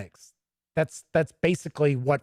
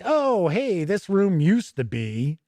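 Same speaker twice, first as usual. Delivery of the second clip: high, brisk parody of filler writing; hammed-up fussy adventure prose; mocking padded module text; 6 semitones higher than usual. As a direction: read it like a pointless room description. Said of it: "role-playing games where it's like".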